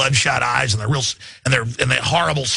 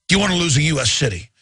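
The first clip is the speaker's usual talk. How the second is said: fear-poking politician; much faster than usual. Retold or imitated. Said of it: "like he's poking you with fear".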